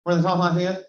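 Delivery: asks in a put-on Eastern Kentucky twang; Appalachian accent. Shown as a demonstration. Pastor demoing an Eastern Kentucky accent for his class, light Appalachian twang.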